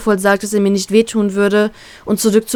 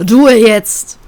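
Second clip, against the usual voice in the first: louder curt snap for silence; barked order; 7 dB louder than usual. Acted. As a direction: shut them up sharply. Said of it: "blafft Law sie an".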